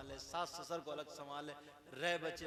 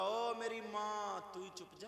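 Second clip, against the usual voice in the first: mock pleading husband; 5 semitones higher than usual. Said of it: "हाथ जोड़ के बोला".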